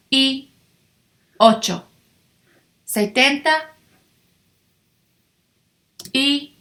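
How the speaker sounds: each part spaced, y held apart; slow model counting. Shown as a demonstration. Teacher slowly builds two-digit numbers for students. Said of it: "Add your number".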